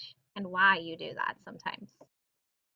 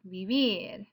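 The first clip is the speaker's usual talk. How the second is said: "vivir" with a drawn final "vir"; stress on last syllable. Shown as a demonstration. Teacher repeating the example, "vivir" stressed on last syllable. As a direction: lean into the end of "vivir". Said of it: "Stress is on the last syll".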